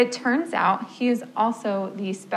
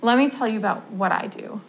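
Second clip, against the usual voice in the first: gentle; 2 semitones lower, 4 dB quieter than usual. Retold or imitated. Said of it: "very gently say".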